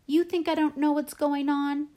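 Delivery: high, loud angry challenge; child shouting in indignation; yelled. A narrator's reading. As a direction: yell it as an accusing question. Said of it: "I yelled".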